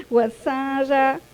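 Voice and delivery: Wasanda spelled out slowly, syllable by syllable; teacher slowly sounding out Wasanda for a student; slow correction. Shown as a demonstration. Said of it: "Aquí has puesto Guaranza".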